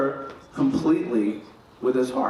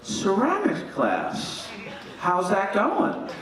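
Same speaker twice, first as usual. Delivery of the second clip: mother asking; 4 semitones higher, much slower than usual. Retold or imitated. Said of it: "she goes".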